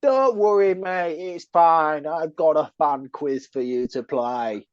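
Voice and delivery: drawn-out, hammed-up Southern English accent; mock Southern accent. Co-host teasing the quiz master's opening, mock Southern accent. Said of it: "my best Southern accent I could do".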